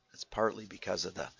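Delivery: lost voice, hoarse and rough; talking through a hoarse, worn-out throat. Real, not acted. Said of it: "I've kinda lost my voice".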